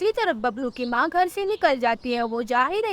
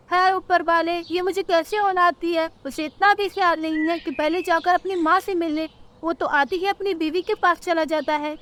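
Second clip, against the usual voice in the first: higher-pitched lamenting bird mother; complaining mother; 5 semitones higher than usual. Acted. Mother complains to heaven about her son, lamenting.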